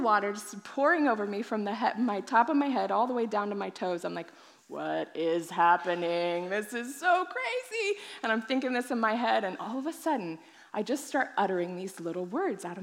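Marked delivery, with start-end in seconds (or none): 4.7-8.0 stunned wonder, stretched out; amazed. Retold or imitated. Amazed at the sudden experience.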